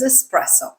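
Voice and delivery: espresso said with a plain S, es-PRESS-o; correct pronunciation. Shown as a demonstration. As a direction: say espresso without any K sound. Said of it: "the way to say it correctly".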